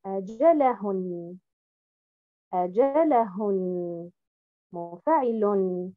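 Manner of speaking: أجلهن said with the wrong stress; أجلهن with misplaced stress. Shown as a demonstration. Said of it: "et non pas".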